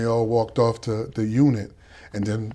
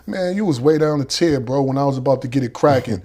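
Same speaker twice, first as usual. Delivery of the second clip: yelling on the tier; 3 semitones higher, 4 dB louder than usual. Retold or imitated. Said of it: "I'm yelling".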